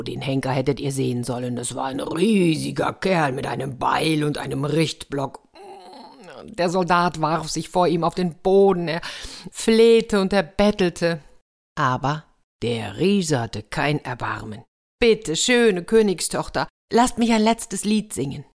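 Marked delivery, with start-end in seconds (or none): 1.5-5.4 whisper. A narrator's reading. Spooky aside about the executioner. 15.0-18.4 pleading. Acted. Soldier begs for his life.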